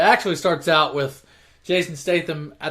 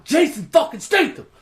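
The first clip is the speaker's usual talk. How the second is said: excited reveal; 9 semitones higher than usual. Real, not acted. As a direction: announce the twist like a big reveal. Reveals the surprise villain.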